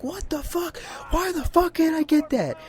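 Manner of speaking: retold exasperation in a high, strained squeal; exasperated. Player fuming at unreachable Sly masks, exasperated. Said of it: "it was really pissing me off".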